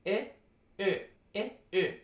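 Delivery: short I alternating with its lip-rounded twin Ö; unrounded to rounded. Shown as a demonstration. Teacher showing how to form the vowel, I rounded into Ö. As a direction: switch lips spread, then rounded: I, Ö, I, Ö. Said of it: "then you round your lips".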